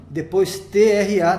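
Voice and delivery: T R A, each letter named slowly; spelled letters. Shown as a demonstration. Teacher spelling the syllable tra for students, slowly. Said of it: "a gente dividiria".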